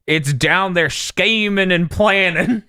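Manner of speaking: hammed-up Southern android; Southern trucker accent. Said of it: "this Southern trucker android".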